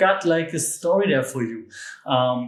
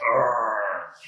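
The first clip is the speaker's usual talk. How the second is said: low drawn-out "arr"; playful growl; 4 semitones lower than usual. Pretend. Playful noise while prompting cat.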